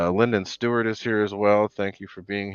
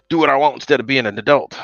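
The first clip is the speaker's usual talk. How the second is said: higher and louder, gleeful; excited; 8 semitones higher, 11 dB louder than usual. Real, not acted. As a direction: burst out with the freedom of it. Repeats the phrase with emphasis.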